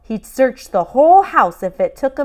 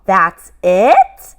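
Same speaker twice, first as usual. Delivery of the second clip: loud letdown whine; disappointed complaint; 11 dB louder than usual. Acted. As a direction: cry out in disappointment. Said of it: "Sam complained".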